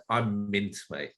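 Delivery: light put-on Geordie accent; a touch of Geordie twang on it. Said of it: "is that a Geordie twang".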